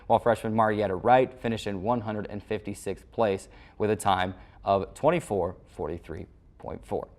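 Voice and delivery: steady, polished anchor read over the recap; sports news read. Acted. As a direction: read it like a weekly sports wrap-up.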